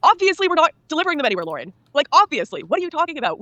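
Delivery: high-pitched, talking down to an idiot; mock-incredulous, stating the obvious; condescending. Office staff answering her petition question, condescending. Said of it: "looked at me like I was stupid".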